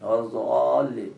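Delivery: ওয়ালা দাল্লিন slow, crisp d; slowly, a clear d in দাল্লিন. Shown as a demonstration. Teacher repeating the imam's clear recitation, slow. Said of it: "স্পষ্ট".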